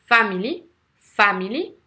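"family" with FA leading, light -mily rising; stress on first syllable. Shown as a demonstration. Teacher giving a three-syllable example, "family" stressed on FA. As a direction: hit FA in "family", keep the rest light. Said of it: "soit la première syllabe".

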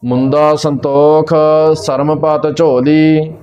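slow, measured Gurbani recitation with held vowels; scripture recitation. Shown as a demonstration. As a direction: recite it slowly, drawing out each word. (ਠਹਿਰ ਕੇ ਗੁਰਬਾਣੀ ਪਾਠ)

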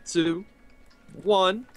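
slow, high, stretched countdown; game-show style starting call. Acted. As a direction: draw it out high, then shout go. Streamer calls the race countdown.

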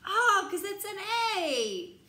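high, loud eureka; mock discovery. Reader pretending to discover the A sound, loud and high. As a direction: act out a sudden realisation for the child.

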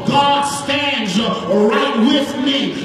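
sung, tuneful preacher's chant over the organ; rising sing-song sermon cadence, building the crowd; whooped preaching. Acted. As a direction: ride the music and chant each line like a Black church whoop.

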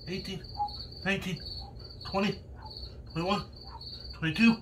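counting reps while straining; strained count between push-ups; doing push ups. Real, not acted.

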